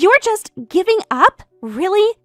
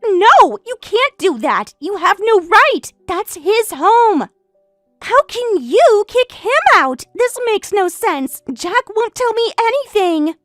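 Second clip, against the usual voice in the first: outraged protest; 4 semitones higher than usual. Acted. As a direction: refuse to accept it, rising upset. Mistress protests eviction.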